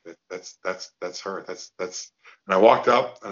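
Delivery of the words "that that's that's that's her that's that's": soft, stunned, barely audible; hushed and awestruck at the sight of her; starstruck murmur. Retold or imitated. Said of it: "I just kinda went".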